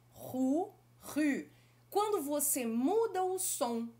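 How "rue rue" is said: "rue" with front rounded u; "rue" with French u and uvular r. Shown as a demonstration. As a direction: say "rue" with pursed lips. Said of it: "por exemplo".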